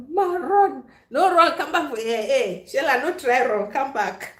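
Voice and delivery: playfully shouting for Shella to come back; playful calling. Pretend. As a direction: call after them teasingly. Calling people back, mock chase.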